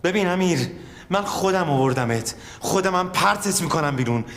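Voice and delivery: furious boss dressing him down; angry scolding. Acted. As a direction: lay into him for betraying you. Boss berates colleague.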